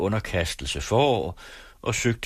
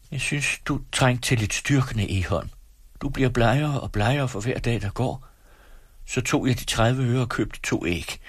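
lightly voiced mother, higher-pitched; placating mother; 5 semitones higher than usual. Wife justifying the eggs to her husband, placating. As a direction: explain gently but firmly, pitched up.

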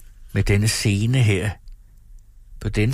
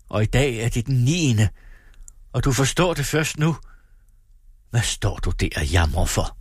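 bitter accusation; 3 semitones higher than usual. Acted. Lina bitterly accuses her husband.

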